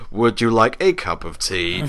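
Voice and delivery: a slow, overly polite offer of tea; mock posh tea offer. Mocking his mum while offering her tea, slow and polite. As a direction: mimic the prim host, slowly. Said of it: "Like that".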